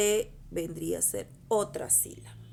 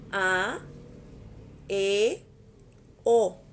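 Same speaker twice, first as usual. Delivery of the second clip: each open vowel sounded out louder and louder, mouth wide; 6 dB louder, much slower than usual. Shown as a demonstration. Teacher shows children open vowels, rising loud. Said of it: "tiene mayor intensidad al pronunciarla".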